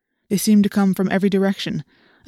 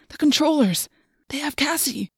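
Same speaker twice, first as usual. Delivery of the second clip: high frantic cry; alarmed, voice jumping up high; panicked; 8 semitones higher than usual. Acted.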